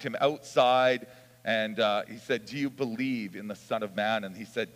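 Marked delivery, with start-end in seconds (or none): 2.5-4.2 softened, understated voice for Jesus; gently retold question. Preacher retelling Jesus finding the outcast, mildly gentle. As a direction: ease off into a gentle imitated question.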